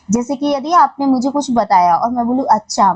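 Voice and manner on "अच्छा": falling "oh, I see" tone; just finding out. Shown as a demonstration. Teacher demonstrates learning something she didn't know, realizing. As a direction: say it as news just sinking in. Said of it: "मुझे वो ज्ञान नहीं था और मुझे अभी पता चला".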